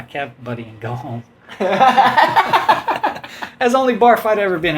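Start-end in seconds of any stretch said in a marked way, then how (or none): 1.6-4.8 slow, drawn-out laughing speech. Real, not acted. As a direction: laugh through the words. Laughing at the story's end.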